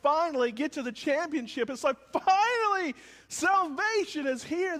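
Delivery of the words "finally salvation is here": high, joyful cheer of relief; excited fans. Retold or imitated. Preacher voicing sports fans at the championship, cheering high. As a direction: cheer it like fans finally winning. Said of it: "That's what they're screaming".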